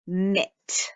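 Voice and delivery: a hushed Mitt for the class; whispered word. Shown as a demonstration. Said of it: "whispered word".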